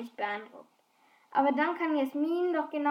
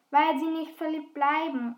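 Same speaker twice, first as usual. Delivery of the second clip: calling out; 2 semitones higher, 4 dB louder than usual. Acted. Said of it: "rufe ich".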